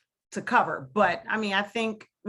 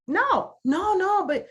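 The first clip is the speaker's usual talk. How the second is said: higher, louder patronizing colleague voice; mocking white colleagues; 9 semitones higher, 4 dB louder than usual. Imitating white colleagues who set her apart, higher and mocking. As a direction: play the well-meaning colleague who means to flatter. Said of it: "I'm like".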